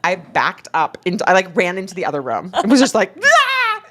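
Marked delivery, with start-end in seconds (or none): 3.2-3.8 high-pitched mock shriek of laughter; imitated giggling shriek. Acting out her own uncontrollable giggles, mock shriek. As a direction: squeal it like a giggly kid. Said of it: "I started giggling uncontrollably".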